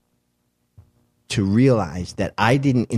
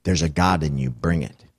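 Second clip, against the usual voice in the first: put-on drunk actor's line; 4 semitones lower than usual. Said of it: "That fucking actor was drunk".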